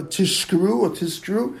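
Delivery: "Tishkru" with sh, then "Tiskru" with s; slow demo of "Tishkru" and "Tiskru"; wrong sibilants. Shown as a demonstration. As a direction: slowly show the slips "Tishkru or Tiskru". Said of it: "You have to say it with a Zion".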